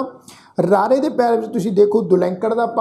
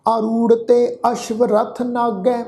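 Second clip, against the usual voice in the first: slow, measured Gurbani recitation; scripture recitation; slower than usual. Shown as a demonstration. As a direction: draw out each word of the verse, evenly paced. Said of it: "ਇਸ ਦਾ ਪਾਠ ਰਲ ਮਿਲ ਕੇ ਉਚਾਰਨ". (ਹੌਲੀ, ਠਹਿਰ ਕੇ ਗੁਰਬਾਣੀ ਪਾਠ)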